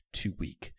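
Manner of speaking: ordinary delivery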